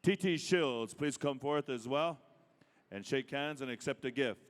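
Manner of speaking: loud announcer invitation; powwow emcee. Acted. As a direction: call them forward over the PA. Calling names at a powwow.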